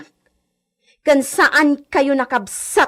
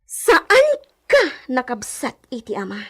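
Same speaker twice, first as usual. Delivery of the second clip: a choked cry breaking the word; sobbing protest; sob; 5 semitones lower, 5 dB quieter than usual. Acted. Sister confronts over inheritance, cries.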